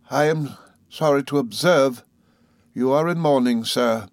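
polite regret from a proud mother; lightly voiced grave lady; stately mother. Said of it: "said Missus Steerforth".

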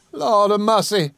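high, slow, stunned cry. A narrator's reading. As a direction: cry out in shocked recognition. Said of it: "she cried".

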